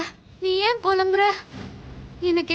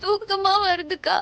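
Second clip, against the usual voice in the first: drowsy tearful. Acted. Dazed Indira after drinking.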